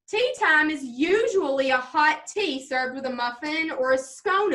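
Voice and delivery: measured, expressive recitation for a judge; reading a presentation aloud. Acted. Junior presenting on blueberry muffins, read-aloud presentation style. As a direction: present it like a prepared school speech.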